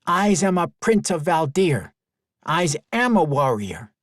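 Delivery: a small prince puffing up; proud child voice. Acted. Boy proudly declares himself.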